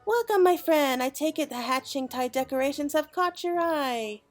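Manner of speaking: friendly quest giver. Acted. Quest giver welcoming the adventurer back, in a bright welcoming voice. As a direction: greet the adventurer like a cheerful host. Voicing NPC quest greeting.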